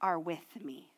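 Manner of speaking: slow, drawn-out "You are with me"; intimate address. Acted. Pastor voicing David speaking to God, slow and intimate. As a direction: speak it as if directly to God, slowly. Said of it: "he now says".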